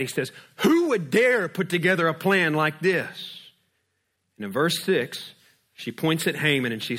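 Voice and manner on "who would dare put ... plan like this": angry king. Retold or imitated. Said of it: "And the king is mad".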